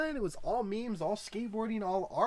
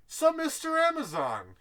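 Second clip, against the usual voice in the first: mock talk-show interviewer; 11 semitones higher, 7 dB louder than usual. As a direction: grill a billionaire like a smarmy host, laughing through it.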